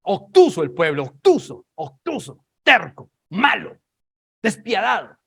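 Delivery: loud, high, punched-out words; forceful denunciation. Real, not acted. Preacher denouncing the obtuse people, loud and condemning. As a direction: hurl each word as an accusation.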